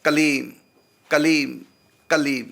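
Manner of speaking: कलीम said three times, each ending on a closed half m; कलीम repeated as a pronunciation drill; repeated correct kaleem. Shown as a demonstration. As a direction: drill कलीम slowly, keeping the lips shut at the end. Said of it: "इसका उच्चारण होगा कलीम".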